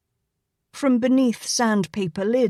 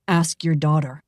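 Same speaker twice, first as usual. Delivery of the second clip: calm suggestion; 4 semitones lower than usual. Acted. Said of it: "Cole suggested calmly".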